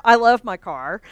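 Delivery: usual speaking voice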